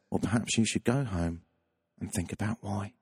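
mildly patronising, measured put-down; low-key superior advice, pausing midway; condescending. Retold or imitated. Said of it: "in the most condescending voice and tone".

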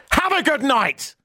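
high, drawn-out fake-polite farewell; slow singsong goodnight with a dig in it; passive aggressive. Parting shot as he left the bar, passive aggressive. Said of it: "Passive aggressive".

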